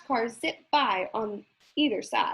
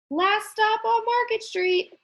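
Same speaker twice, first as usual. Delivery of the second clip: calling out; 9 semitones higher than usual. Acted. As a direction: announce the stop to the whole bus. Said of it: "Mister Dennis called".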